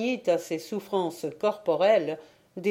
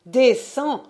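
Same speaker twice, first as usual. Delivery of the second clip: higher and louder, rising; escalating command; 6 semitones higher, 6 dB louder than usual. Acted. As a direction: push the second "descends." up high and loud with a rise. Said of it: "repeated command escalated".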